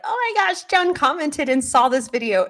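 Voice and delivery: high-pitched excited gush; imitated inner fangirling. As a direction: squeal it, starting very high and easing down. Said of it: "while really like".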